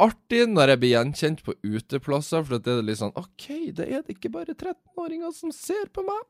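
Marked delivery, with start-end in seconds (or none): 3.1-6.2 much higher, softer, airy thought; pleased inner voice. Retold or imitated. Vlogger's inner thought about being recognised, high and soft. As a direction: think it to yourself, high and tickled.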